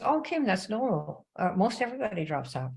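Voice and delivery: mild imitated Southern drawl, slowed; lightly voiced Southern upline lady; a hint of a Southern drawl. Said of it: "in her little Southern drawl".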